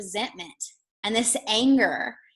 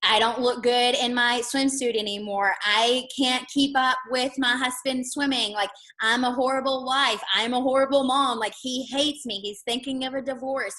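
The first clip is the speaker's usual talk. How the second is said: anxious spiral; 3 semitones higher than usual. Retold or imitated. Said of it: "this story that she's telling herself is".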